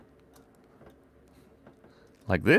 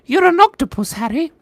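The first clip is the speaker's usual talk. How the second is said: Hagrid parody; 8 dB louder than usual. Pretend.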